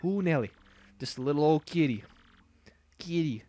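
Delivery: high cutesy kitty voice; high, cute anime kitty; anime cat voice. Pretend. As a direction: squeak it like a cartoon cat. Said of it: "Anime cat".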